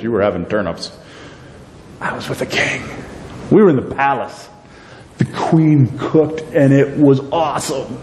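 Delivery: a boastful, gloating Haman, lightly voiced; mock boast to his friends; bragging Haman. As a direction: brag it to the crowd, teasing them. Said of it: "He bragged to them".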